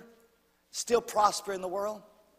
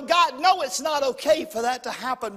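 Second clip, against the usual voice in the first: loud raised protest, strongest on the first words; protesting to God; 5 dB louder than usual. Retold or imitated. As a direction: push back at God in protest. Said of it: "I really wanted to, uh, go".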